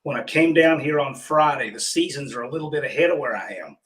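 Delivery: hoarse froggy voice from pollen allergy; scratchy, pollen-clogged froggy throat. Real, not acted. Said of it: "I sound like Kermit the Frog".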